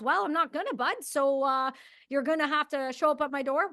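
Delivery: unbothered Canadian owning it; Canadian accent. Retold or imitated. Homeowner admits it to the agents, in a Canadian accent. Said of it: "I'm gonna try to do the Canadian accent".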